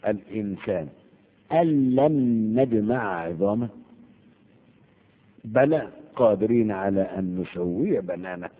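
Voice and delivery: slow chanted verse; verse recitation. Acted. Teacher reciting Surat al-Qiyama to students, slow chant.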